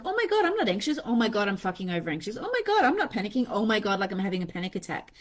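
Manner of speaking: racing from denial to panic; spiralling anxiety. Retold or imitated. Anxiety swinging to panic, fast mock spiral. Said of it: "It's like".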